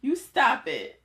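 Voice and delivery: telling off Instagram, half joking; scolding Instagram. Pretend. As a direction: playfully tell the app to stop. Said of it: "now I know how you feel when you're like".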